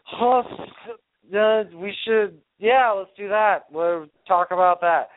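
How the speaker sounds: slow, slurred mock drunk; lightly faked drunk voice; drunk impression. Shown as a demonstration. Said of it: "that's my best impression of myself doing that".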